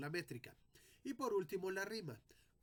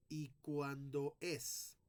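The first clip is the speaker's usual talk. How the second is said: slow reading; much slower than usual. Shown as a demonstration. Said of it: "no voy a leer".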